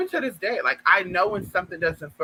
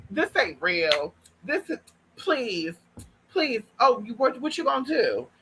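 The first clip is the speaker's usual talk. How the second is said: pleading; 5 semitones higher than usual. Retold or imitated. Friend pleading during robbery.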